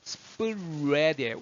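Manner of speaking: "스프레드" drawn out, r starting like "우"; rounded R. Shown as a demonstration. Teacher showing the 우 shape, slow rounded r in "스프레드". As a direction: slowly stretch "스프레드" with lips rounded into the r. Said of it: "우하듯이 해야 돼요".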